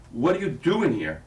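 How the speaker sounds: slow, loud demo of the scream. Shown as a demonstration. Director demonstrating the scream for actress, slow and loud. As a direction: director yelling the line slowly. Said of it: "what you're gonna scream".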